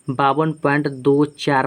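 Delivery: slow, with "दो" and "चार" read as separate digits. Shown as a demonstration. Teacher showing how decimals are read, slow digit by digit. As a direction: space out "दो", then "चार", one at a time. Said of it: "इसको हम एक एक करके पढ़ते हैं".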